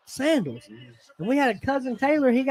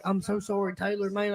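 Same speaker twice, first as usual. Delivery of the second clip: mock soft apology; 7 dB quieter than usual. Retold insincere apology to cousin.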